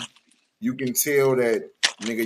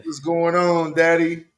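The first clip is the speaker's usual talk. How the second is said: sultry voice; 4 semitones higher, 5 dB louder than usual. Retold or imitated. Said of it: "calling him daddy in a sultry voice".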